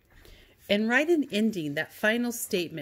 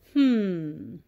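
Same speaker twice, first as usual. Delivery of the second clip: puzzled hmm; 4 dB louder than usual. Shown as a demonstration. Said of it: "Or asking that question".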